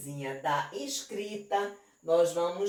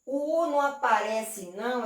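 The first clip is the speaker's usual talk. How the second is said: student's question; 4 semitones higher, slower than usual. Retold or imitated. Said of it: "você pode dizer".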